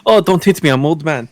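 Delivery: put-on high, whiny old man plea; mock old man. Old wrestler pleading not to be hit, lightly whiny. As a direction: play the frail old man, mockingly. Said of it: "He goes".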